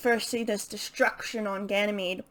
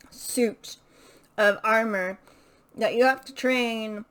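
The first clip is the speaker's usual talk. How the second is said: talking while crunching a mint; words round a chewed mint; chewing a mint. Real, not acted. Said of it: "I'm chewing on a mint".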